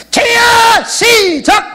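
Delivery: high, loud, drawn-out rallying cry; demonstrated prayer shout. Shown as a demonstration. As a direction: lead the crowd in a full-voiced shout. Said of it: "저 한 번만 따라서 해볼까?".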